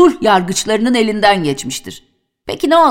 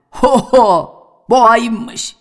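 shout; 3 semitones higher, 3 dB louder, much slower than usual. Acted. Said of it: "kulaklarını kapayıp bağırdı".

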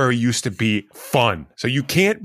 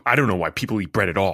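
talking while chewing jerky; mouth full; 5 semitones lower, faster than usual. Acted. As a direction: chew jerky between words. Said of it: "that's good jerky".

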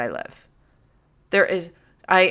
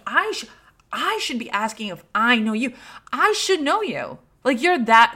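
starstruck inner voice; 5 semitones higher than usual. Retold or imitated.

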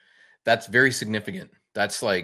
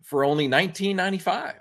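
Twitch prompt voice; 6 semitones higher than usual. Retold or imitated. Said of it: "Twitch is now telling me".

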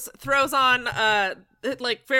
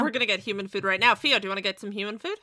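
talking fast; 5 semitones lower, faster than usual. Acted. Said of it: "start talking fast and then catch himself".

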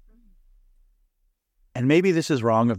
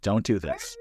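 prospector voice; 4 dB quieter than usual. Retold or imitated. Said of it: "old-timey prospector voice comes out".

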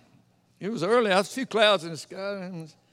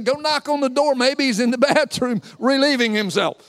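taunting with a laugh breaking in; mock with a chuckle; laughing smack talk; 3 semitones higher than usual. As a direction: tease them, laugh in the middle. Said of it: "Smack talk".

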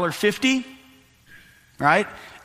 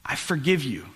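gentle, softening to a near hush; quiet forgiving king. Retold or imitated. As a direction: forgive him tenderly, voice dropping at the end. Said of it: "He says".

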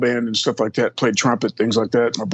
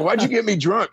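mock outraged cry; 9 semitones higher than usual. Protesting to boss in story.

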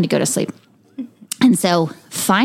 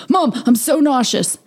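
put-on higher, whiny voice of a queasy child; whiny sick kid; 6 semitones higher than usual. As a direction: son complaining to mom at night, whiny and higher. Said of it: "he's like".

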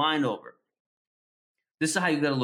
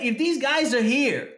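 heated retold rant; 8 semitones higher than usual. Retelling to a friend how he grilled the doomsayer, heated high-pitched challenge. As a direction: pitch shoots up, pressing hard with mock exasperation.

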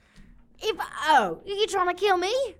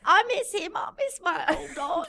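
mock crying; 2 semitones higher than usual. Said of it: "Are you crying, Munder?".

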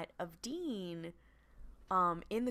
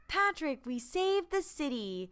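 meme quote; 9 semitones higher than usual. Retold or imitated. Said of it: "quoting meme".

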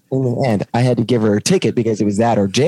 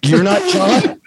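higher, puzzled put-on voice for the agent; imitating the lady; 8 semitones higher, slower than usual. Imitating the airport lady questioning the son, puzzled. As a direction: ask like a confused clerk.

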